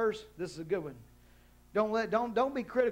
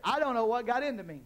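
mock excuse; 4 semitones higher than usual. Mocking excuse again, higher.

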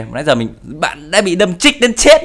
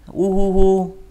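mock sobbing; 4 semitones higher, much slower than usual. Fake crying after failing to die.

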